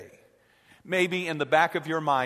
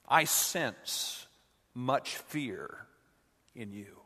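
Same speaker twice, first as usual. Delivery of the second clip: a hint of Yoda; 3 semitones lower, 6 dB quieter, slower than usual. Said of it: "Yoda pauses and sighs".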